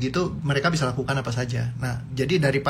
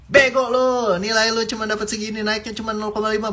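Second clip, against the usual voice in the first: angry scolding; 7 semitones higher than usual. Acted. Mother yelling at her child over bad grades, hammed-up furious rant.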